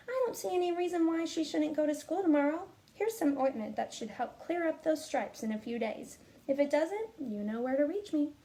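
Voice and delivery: doctor's advice. Acted. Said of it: "Doctor Bumble said".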